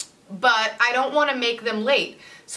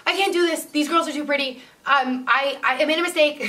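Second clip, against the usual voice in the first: higher, panicky retelling of herself; panicked; 6 semitones higher than usual. Retold or imitated. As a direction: spiral into a mild panic. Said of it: "And I was like".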